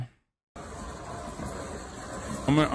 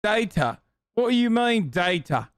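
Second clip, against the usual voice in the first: mock outrage. Mock boomer outraged at graph.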